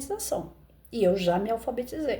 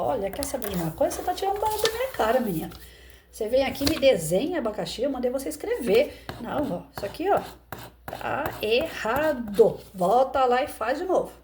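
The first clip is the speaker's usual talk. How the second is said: scolding teacher; 3 semitones higher than usual. Retold or imitated. Teacher berates a little girl over her drawing, mock harsh. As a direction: tell the child off harshly, hammed up.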